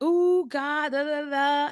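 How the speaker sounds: high, giddy squeal of delight over a man; swooning high voice; giddy excitement. Retold or imitated. Smitten woman telling God about a man, high and giddy. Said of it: "I'm like".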